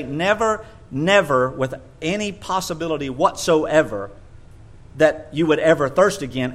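"Never, never" punched hard; emphatic never. Shown as a demonstration. Preacher showing the silly over-emphatic translation. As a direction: lean on each "never" and "whatsoever". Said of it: "We would have to say".

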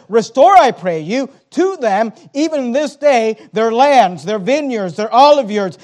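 loud commanding rebuke, building; stern rebuke. Acted. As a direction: thunder it out as a leader rebuking nobles. Preacher voicing Nehemiah's rebuke.

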